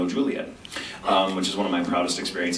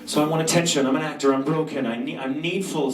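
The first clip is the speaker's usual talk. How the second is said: lightly put-on Sebastian voice, needy and theatrical; hint of a foreign accent, playing the needy actor; light mock Sebastian voice; Sebastian's voice; 5 semitones higher than usual. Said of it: "doing Sebastian's voice".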